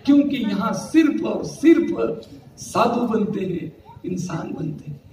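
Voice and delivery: drawn-out, deliberate shayari delivery; verse recitation. Acted. Preacher reciting Hindi verse to the congregation, slow poetic recitation.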